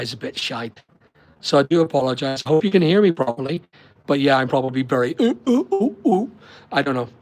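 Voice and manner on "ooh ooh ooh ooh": high robotic "ooh, ooh" sounds, lightly done; robotic ooh impression. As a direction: play at being a robot with a warbling ooh. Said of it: "That's a really good robotic impression there".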